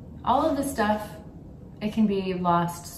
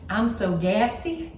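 reading the mug; 4 semitones higher, slower than usual. Retold or imitated. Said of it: "one side says".

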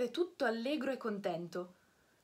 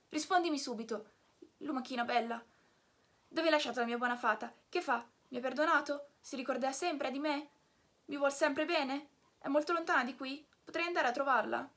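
put-on higher, hurried boy's voice, barely pausing for breath; eager puppet; 4 semitones higher than usual. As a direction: Pinocchio pouring out anxious questions to the snail. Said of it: "fatte precipitosamente e senza ripigliar fiato". (Pinocchio ansioso, domande a raffica)

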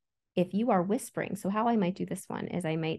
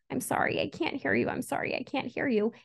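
repeated apology, straining to hear; 6 semitones higher than usual. Acted. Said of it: "and you keep saying".

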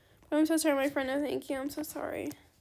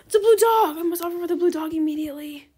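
excited discovery; 8 dB louder, faster than usual. Real, not acted. Gamer sees a blue dog for trade, thrilled outburst. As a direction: gush over the prize.

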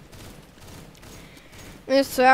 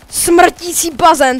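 1 dramatic announce; 2 semitones higher, 6 dB louder, much slower than usual. Real, not acted. Announcing map name dramatically.

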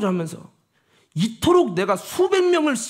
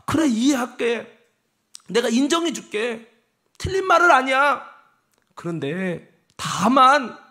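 the Lord speaking; 2 semitones higher than usual. Pretend. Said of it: "주님이 이렇게 말씀하는 거예요".

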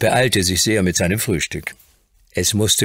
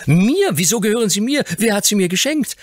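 put-on high, loud, thrilled child's voice; little lord overjoyed at the toys, high and loud; joyful cries; 4 dB louder, faster than usual. A narrator's reading. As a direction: burst out with delight. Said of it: "mit einem Freudenschrei".

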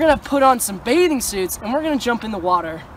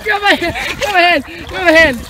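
urgent shout; 4 semitones higher, 4 dB louder, faster than usual. Real, not acted. Pulling friend out of water.

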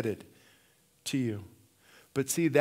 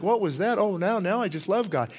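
mock instant conversion; 5 semitones higher, 3 dB louder than usual. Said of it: "he's not gonna be singing worship like".

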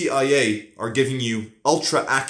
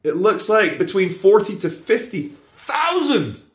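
lightly voiced higher official, a hint of British intelligence; MI6 spokesman lightly imitated, higher; mock British official; 8 semitones higher than usual. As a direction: play a briefing officer, only a little. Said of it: "they're saying".

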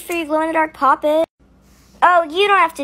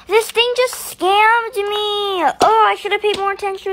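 outraged; 6 semitones higher, 3 dB louder than usual. Acted. Machine tricks her.

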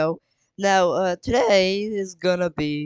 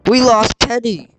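higher-pitched pretend panic; mock alarm; 4 semitones higher than usual. Georgie tells Mom and Dad that Penny is lost, mock alarm. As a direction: call out in play-acted dismay.

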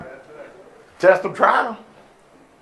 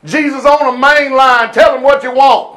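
sarcastic. Real, not acted. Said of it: "ironic wrong words vs "mourn".

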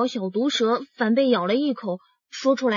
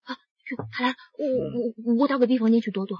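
flustered hurry; 4 dB quieter than usual. Acted. Hiding from arriving colleague.

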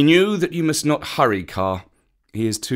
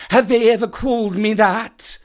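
offended surprise; 10 semitones higher, 4 dB louder than usual. A narrator's reading. Kaa offended.

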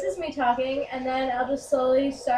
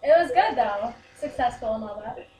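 put-on girly voice; girl voice; 4 dB louder than usual. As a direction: fake a girl's voice. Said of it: "I sound authentic".

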